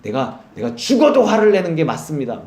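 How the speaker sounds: acting out Jonah's stubborn temper; mildly heated protest; mock temper. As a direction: insist crossly, leaning hard on 죽어도. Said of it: "요나가 막 성질을 내니까".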